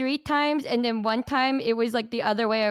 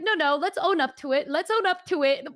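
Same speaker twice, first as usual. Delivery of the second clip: higher, insistent calling-out; mock insistence; 4 semitones higher than usual. Replaying a demand to own up to it, mock insistent. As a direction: playfully press them to confess.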